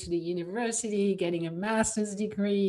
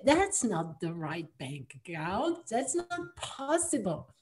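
disbelief; 3 semitones lower, 5 dB quieter than usual. Retold or imitated. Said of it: "Like I said".

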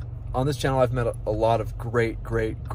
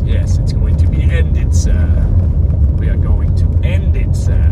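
louder put-on British butler voice; British accent; 5 dB louder than usual. Vlogger doing his British accent while driving, playful. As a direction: play a polite English servant answering sir. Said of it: "try to speak in my British accent".

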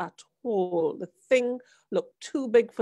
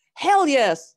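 louder, higher "Hell yes"; louder emphatic yes; 6 semitones higher, 9 dB louder than usual. A narrator's reading. Father answering his son eagerly, a louder "Hell yes". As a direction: punch "Hell yes" harder. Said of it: "said the father".

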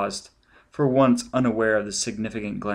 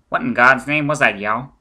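alarmed shout; 2 semitones higher, 8 dB louder than usual. Acted. Shocked agent after apparition.

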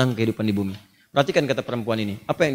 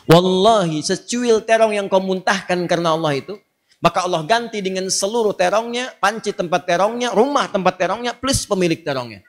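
emphatic repeat; 5 semitones higher than usual. Shown as a demonstration. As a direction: proclaim it again with force. (ulangan lebih keras dan tinggi)

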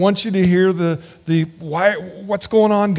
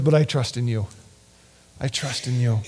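low, soft, settled confession; quiet trust; 7 semitones lower, 6 dB quieter than usual. Retold or imitated. David quietly declaring trust in God. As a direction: say it lower, resting in trust.

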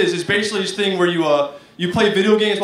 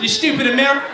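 higher mock British voice; British accent; 4 semitones higher, much faster than usual. British gamer insulting an American, mock British accent. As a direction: put on a hammy British accent. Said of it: "that's my British accent".

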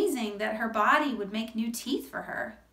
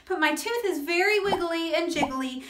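climbing louder and higher anxious questions; worried; 3 semitones higher, 4 dB louder than usual. Acted. Shark listing her fears to her friend, building anxiously. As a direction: build the worry to a peak.

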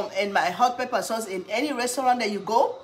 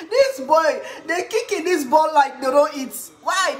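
loud mocking rant; 6 semitones higher, 5 dB louder than usual. Real, not acted. Mocks the players.

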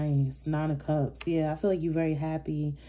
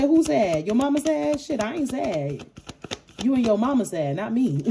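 high and loud, laughing it off; sassy Libra comeback; 7 semitones higher, 4 dB louder than usual. Pretend. Libra roasting the bitter ex about being sad, high and loud. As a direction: roast them with a grin in the voice. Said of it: "You said".

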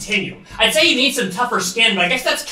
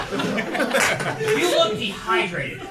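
very slow repeat; 6 semitones higher, 3 dB quieter, much slower than usual. Shown as a demonstration. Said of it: "repeats bar slowly".

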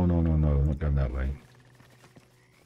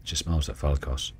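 story narration. Acted. Reads and voices the Dryad.

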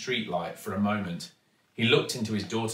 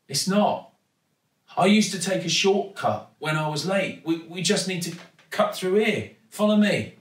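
put-on higher girlish voice, urgent and eager; eager young girl; 8 semitones higher, 4 dB louder than usual. Daughter urging her father through a shortcut, eager and higher. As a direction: urge him on, lead the way. Girl's voice held in dialogue.

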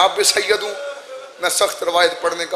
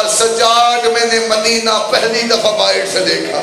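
weeping; 3 semitones higher, 4 dB louder, slower than usual. Acted. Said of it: "बीबी ने रो के कहा".

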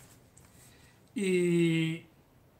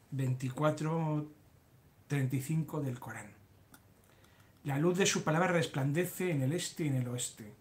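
measured, lilting read-aloud delivery. Acted. Host reads listeners a text about the poet, measured recital reading. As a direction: read it out phrase by phrase, with rising and falling tune.

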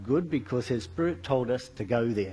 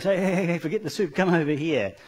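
raised, higher urgent "hey, hey" calling someone over; 5 semitones higher, 4 dB louder than usual. Retold or imitated. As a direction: call her over in alarm. Marianne calls out in alarm.

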